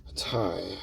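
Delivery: hushed, almost to yourself; a quiet whispered aside at the result. Real, not acted. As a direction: whisper "A tie." under your breath.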